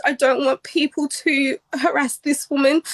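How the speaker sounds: usual speaking voice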